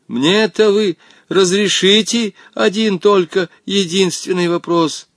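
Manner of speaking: high, halting plea; desperate pleading. A narrator's reading. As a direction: beg with a touch of despair. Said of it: "с таким отчаянием в голосе". (умоляя, с отчаянием в голосе)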